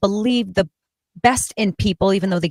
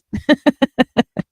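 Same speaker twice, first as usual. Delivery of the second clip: laugh; 8 semitones higher than usual. Real, not acted. Laughing at own joke.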